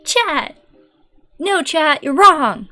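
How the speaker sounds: shrieking high catchphrase greeting to chat; Pippa. Acted. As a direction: squeal the catchphrase like a hyper cartoon bird. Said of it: "And then there's her, like".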